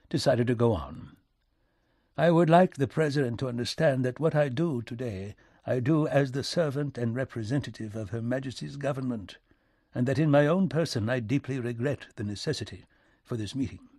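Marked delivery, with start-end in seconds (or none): 2.2-13.9 lightly voiced diplomat, measured and courteous; a hint of stiff British formality; formal British envoy. British envoy's formal speech in story.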